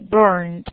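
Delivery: "burned" in one syllable with a D ending; final -ed as D. Shown as a demonstration. Teacher confirms the ending to the class, "burned" ending in D. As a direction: say "burned" firmly, closing on D. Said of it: "se pronuncia como una D".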